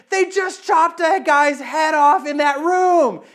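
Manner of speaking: put-on high, slow, wide-eyed child's voice; scared kid. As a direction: blurt it like a frightened eight-year-old. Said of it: "And I said".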